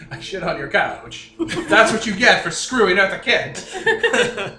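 loud high rant breaking into laughter; laughing rant. Acted. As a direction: shout it while laughing. Cat voice ranting, laughing.

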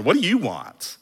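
brisk "What do you want?" at full voice; brusque asking. Shown as a demonstration. How Jesus is not asking his followers, brusque demand. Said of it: "we don't really know emphasis and tone".

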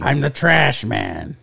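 slow, lightly voiced gruff little man; Danny DeVito impression. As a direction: play the trash man, slow and proud. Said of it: "Uh, Danny DeVito".

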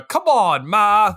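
punchy mock Brooklyn accent. Podcaster showing what Travolta lost, mock Brooklyn accent. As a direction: put on a quick Brooklyn accent. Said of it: "like, Brooklyn accent".

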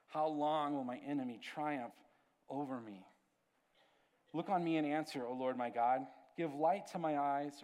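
pastor reading David's lament to the congregation, solemn and heartfelt; scripture reading. Acted. Pastor reads Psalm aloud.

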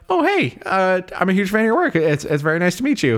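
high, eager fan gushing; starstruck fan. Retold or imitated. Uncle to Ian Holm, excited high fan voice. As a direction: gush like a nervous fan.

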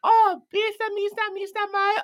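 very high imitation of a radio caller; Julie. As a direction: pipe it up high, calling over the radio. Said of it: "how would Julie call you on the radio?".

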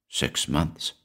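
hushed, stunned whisper. A narrator's reading. Man hearing his wife's news, whispering in shock. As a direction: breathe the words out softly. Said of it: "he whispered".

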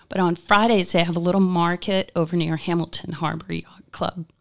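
hoarse, worn-out voice; losing my voice. Real, not acted. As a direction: speak through a failing hoarse voice. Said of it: "I'm losing my voice today".

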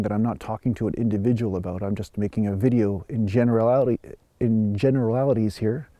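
talking through a numb frozen mouth; words blurred by a frozen mouth. Real, not acted. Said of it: "'cause my mouth is frozen".

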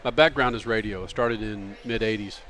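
talking through a mouthful of burrito; mouth full. Real, not acted. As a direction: speak around a bite of food. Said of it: "the burrito hitting the mic".

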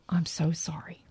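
hushed, barely voiced sympathy; retold sympathy in a low whisper; whispered condolence. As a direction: whisper it softly, as if consoling someone. Coworkers' quiet condolence, retold.

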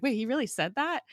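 high-pitched mock indignation; a bit offended. Coulson hears he was called desperate, a little offended. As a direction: imitate someone mildly annoyed, pitch lifted. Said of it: "a little bit annoyed and offended".

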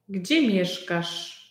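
Gdzie mieszkasz said slowly and clearly; slow, clear repeat. Shown as a demonstration. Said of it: "repeated slowly for learner". (powoli, dla ucznia)

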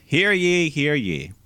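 booming herald proclamation, slow; grand rich voice. Pretend. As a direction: announce it like a royal crier. Mock royal herald announcement.

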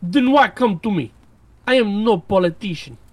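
balking. Acted. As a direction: recoil from the offer. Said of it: "Saint balked".

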